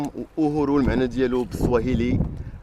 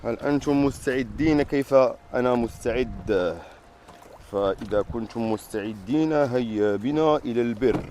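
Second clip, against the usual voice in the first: formal announcer; slower than usual. Acted. Slow formal Arabic adventure call.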